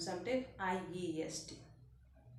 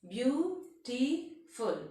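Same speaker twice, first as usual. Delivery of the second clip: beautiful stretched very slowly, beau-ti-ful; teacher drawing out each syllable of beautiful; slow, spelled out by syllable; 3 semitones higher, much slower than usual. Shown as a demonstration. Teacher showing students the syllables, slow and stretched. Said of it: "such as".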